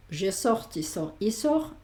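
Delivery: sors and sort said sor; silent final S and T. Shown as a demonstration. Teacher drills students: sors without final S. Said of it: "que sería lo mismo".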